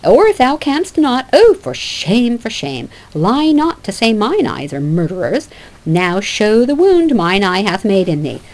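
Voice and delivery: loud, taunting mockery; scornful Phoebe. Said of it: "Act like you're gonna faint".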